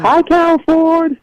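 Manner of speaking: high, slow silly greeting; sing-out hello in a high fake voice. Shown as a demonstration. Caller repeating greeting for Carol in headphones, fake voice. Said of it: "try it again with the headphones".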